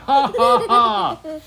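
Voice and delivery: loud, high "ha, ha, ha"; hammed-up gotcha laugh; teasing laugh. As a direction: laugh big and mockingly, as a joke. Character teases, then "just kidding.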